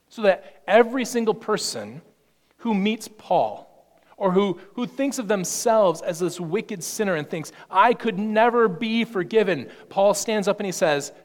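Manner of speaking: rising sermon voice, then dropping to a hush; fervent preacher building then softening; preaching at full force. Acted. Preacher voicing Paul.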